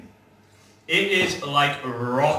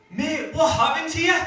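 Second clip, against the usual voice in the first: mock high-pitched call; 12 semitones higher than usual. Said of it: "we're like".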